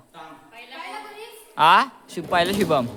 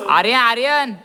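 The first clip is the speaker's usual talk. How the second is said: louder call across the ground; 4 semitones higher, 5 dB louder than usual. Real, not acted. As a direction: call his name to reach him. Calling a friend during the game. (मित्राला मोठ्याने हाक)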